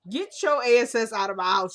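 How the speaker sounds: loud order to get out; angry shout. Retold or imitated. Husband ordering the smug officer out, loud. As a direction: bark him out the door.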